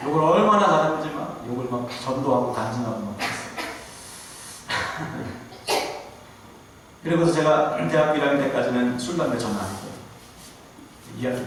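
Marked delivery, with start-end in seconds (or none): 0.1-5.4 얼마나 said through real laughter; laughing. Real, not acted. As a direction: chuckle through the punchline. Laughing at own story. (웃으면서 말하기)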